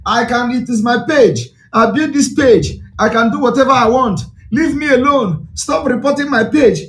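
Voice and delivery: mildly plaintive imitation, pitch climbing; mock someone tearfully pleading to be left alone; half-hearted crying act, building in complaint. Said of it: "He's crying".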